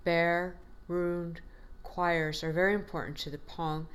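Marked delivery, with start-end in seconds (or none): 0.0-2.4 bare, ruined, choirs each hit apart and weighted; stressed syllables. Shown as a demonstration. Teacher showing the class the stressed words, each one hit. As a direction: give every word of bare, ruined, choirs its own stress. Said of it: "And these stressed syllables".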